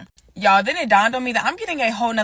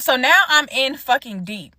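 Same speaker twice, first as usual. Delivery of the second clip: ordinary talk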